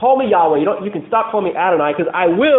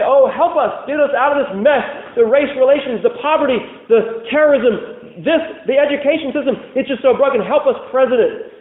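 higher, mock-desperate plea for help; pleading to the president; 5 semitones higher than usual. Preacher mimicking people begging their president, higher and pleading. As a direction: beg the president to fix everything, pitched up. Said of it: "We might look to our president and say".

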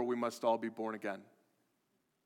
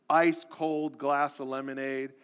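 usual speaking voice

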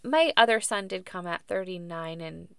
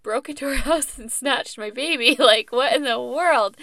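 retold panic; 5 semitones higher, 8 dB louder than usual. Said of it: "my mind is like".

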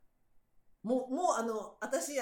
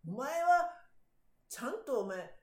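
accusing husband; 4 semitones higher, 4 dB louder than usual. Retold or imitated. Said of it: "とか".

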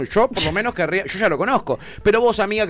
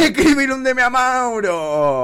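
mock hype; 4 semitones higher than usual. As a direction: stretch it out like a playful pitch. Repeated hammed-up sales chant.

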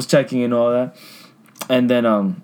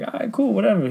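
high, sing-song "all right, cool" to brush him off; sweet customer-service voice over irritation; fake-polite service voice; 11 semitones higher, 3 dB quieter than usual. Agent humoring a rude caller, high fake-sweet voice.

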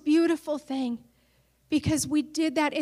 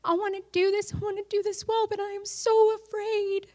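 fearful prayer; 5 semitones higher, 5 dB quieter than usual. Retold or imitated. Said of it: "And so I prayed".

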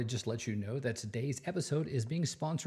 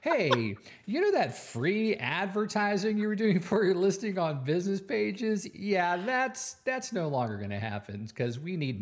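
higher, louder, sly corporate tone; mock company voice; 7 semitones higher, 4 dB louder than usual. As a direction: play the smug company breaking bad news. Voicing Facebook's smug company line.

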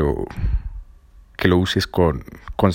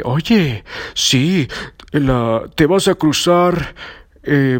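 fortune teller voice; 4 semitones higher than usual. Retold or imitated. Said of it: "los gitanos, el horóscopo".

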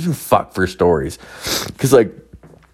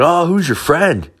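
much higher, sing-song nosy question; fake innocent question; 11 semitones higher than usual. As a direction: ask sweetly, fishing for info. Probing buddy, fake innocent.

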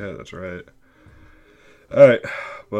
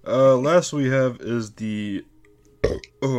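while sipping a drink; 4 semitones higher, slower than usual. Real, not acted. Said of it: "I'm drinking some Yuenglings".

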